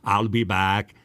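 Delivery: brief Austrian-accented catchphrase; Arnold Schwarzenegger. Shown as a demonstration. Voice actor quoting a movie star's catchphrase in an Austrian accent. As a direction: deliver it as the Austrian action star. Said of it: "It's all his catchphrases".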